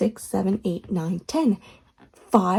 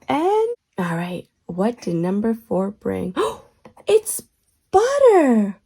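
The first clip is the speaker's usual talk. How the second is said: put-on kids show host. Kids show host counting and reveals.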